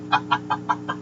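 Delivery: soft unvoiced chuckle; quiet breathy laugh. Real, not acted. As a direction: let a quiet laugh slip out. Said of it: "you can tell I'm having fun now".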